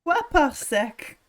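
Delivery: put-on slow affected French accent; mock French accent. Player counts parsecs for laughs, slow mock French accent. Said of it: "You just affect the French accent".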